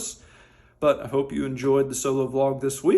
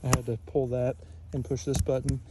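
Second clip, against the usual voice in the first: country man voice; 3 dB louder than usual. Acted. Skit answering as country man.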